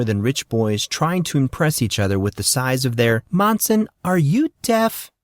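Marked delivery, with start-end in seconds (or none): 3.3-5.1 a much higher, slow exasperated call; woman calling to a boy who isn't listening; calling Molly. Acted. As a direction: snap him out of his daydream. Molly calls the daydreaming boy.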